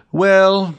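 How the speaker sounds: sighing well. A narrator's reading. Albert sighs at the Count's resolve, resigned sigh. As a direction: let the word ride out on a resigned sigh. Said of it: "said Albert with a sigh".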